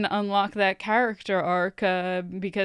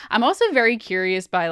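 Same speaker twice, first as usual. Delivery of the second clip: ordinary delivery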